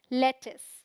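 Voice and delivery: loud model of लेटिस for repeating; correct pronunciation. Shown as a demonstration. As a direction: punch out लेटिस with a short "-is". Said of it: "क्या बोलते हैं?".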